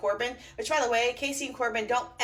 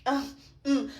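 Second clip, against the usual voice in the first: snooty grandma; 2 semitones higher, slower than usual. Retold or imitated. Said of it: "Grandma Bryce with her nose up in the air".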